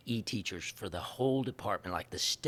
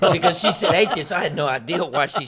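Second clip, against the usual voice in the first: words bubbling through a laugh, louder; 6 semitones higher, 11 dB louder than usual. Real, not acted. Recalling the atheist director's greeting, laughing. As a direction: laugh as you say it. Laughing at his own joke.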